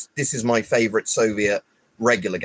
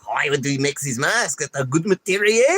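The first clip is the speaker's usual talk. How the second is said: mock French accent; 4 semitones higher than usual. Mocking French mask makers again.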